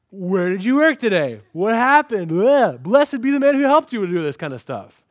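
loud, breathless gushing questions; gushing excitement. Acted. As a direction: pour it all out, overwhelmed with joy. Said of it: "She is, like, gushing".

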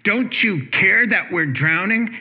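mock alarm, waking him; panicked plea. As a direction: disciples rousing the sleeping teacher, mild mock panic. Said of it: "they wake him up and say".

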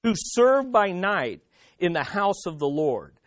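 slow, measured reading with pauses between phrases; scripture reading. Acted. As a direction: read the verse out solemnly, phrase by phrase, falling at the ends. Reads the scripture passage aloud.

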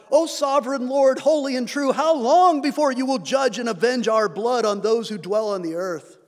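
crying out to God. Retold or imitated. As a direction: read it as an urgent cry to heaven. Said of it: "where they cry out to God".

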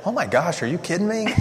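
put-on high incredulous gasp at the boys' language; shocked disbelief. Mom reacting to boys' insults, in high shocked disbelief. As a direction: pitch it way up, can't believe your ears.

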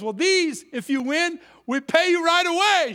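high, loud imitation of a clerk; store clerk. Clerk promising quick payment, mimicked high and loud. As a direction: mimic her, rising to a loud finish. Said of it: "She goes".

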